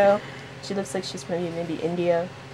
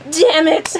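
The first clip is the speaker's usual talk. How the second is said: higher, hammed-up exasperated outburst; mock frustrated curse; 7 semitones higher, 4 dB louder than usual. Acted character curses.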